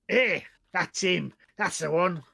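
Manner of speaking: lightly voiced little goblin; a hint of an accusing, pompous goblin. Goblin points out the prisoner to hobgoblin, lightly pompous. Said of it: "this little pompous looking goblin".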